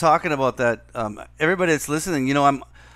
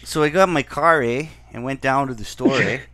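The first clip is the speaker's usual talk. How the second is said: put-on jokey Canadian accent, louder, every clause ending on eh; 5 dB louder than usual. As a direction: play up the Canadian eh for a friend. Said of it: "give me a good Canadian accent".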